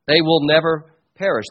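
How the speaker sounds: "They will never perish" said emphatically; emphatic. Retold or imitated. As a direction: put firm weight on "never perish". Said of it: "That's put very emphatically".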